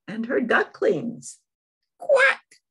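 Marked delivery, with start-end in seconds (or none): 2.0-2.6 high, loud quacking mother duck. Acted. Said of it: "says the mother duck".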